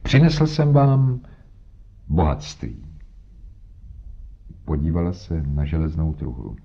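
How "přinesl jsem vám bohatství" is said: hearty bluster covering a sinking heart; jovial, booming. A narrator's reading. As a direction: boom it out with forced joviality, stretching the build-up. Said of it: "spustil žoviálním a bouřlivým hlasem".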